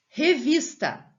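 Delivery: reVISta, high and loud as one slow word; stress on penultimate syllable. Shown as a demonstration. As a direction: read Revista out high, weight on VIS. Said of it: "paroxítona".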